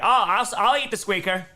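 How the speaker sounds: voicing the dog. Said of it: "it's like".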